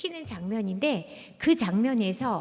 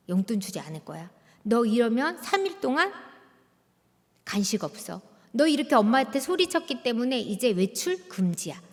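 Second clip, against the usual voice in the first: threatening mother. Retold or imitated. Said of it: "엄마가 협박합니다".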